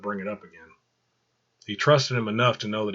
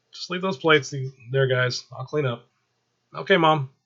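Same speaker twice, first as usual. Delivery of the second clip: mother's voice; 5 semitones higher, 4 dB louder than usual. Acted. Angela and Michael voiced higher.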